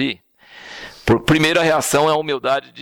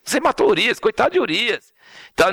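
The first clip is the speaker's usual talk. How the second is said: "coitado de Urias" said higher in a pitying singsong; mock pity; 7 semitones higher than usual. Shown as a demonstration. Preacher showing the pity the text doesn't voice, mock pitying. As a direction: put on a fake sorry-for-him tone for "coitado de Urias". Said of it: "não tô falando nada de coitado de Urias".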